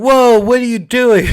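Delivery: mock alarmed shout; shocked whoa. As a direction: react to the baby being smothered. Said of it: "And you're like".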